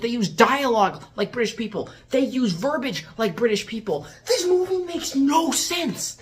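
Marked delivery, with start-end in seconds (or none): 4.3-6.2 high, slow wail of frustration; exasperated verdict. Real, not acted. Reviewer giving up on the movie's logic, exasperated cry. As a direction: stretch it out in disbelief.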